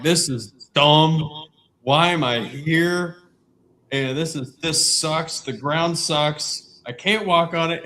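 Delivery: exasperated muttered-complaint quote, played for laughs; retold grumbling. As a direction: re-enact your own cussing, stretching the words. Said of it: "and I was out loud cussing".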